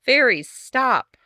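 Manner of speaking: fed up, she roars at the fairies to stop; old woman yelling at rackety fairies to stop. Acted. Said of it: "she yelled".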